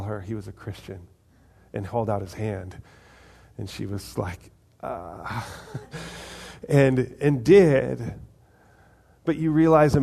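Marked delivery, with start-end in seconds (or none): 4.8-5.5 low, quiet "ah" of reluctance; reluctant groan. Retold or imitated. Woman facing her former guard's offered hand, reluctant groan. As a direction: let out a soft, low mock groan.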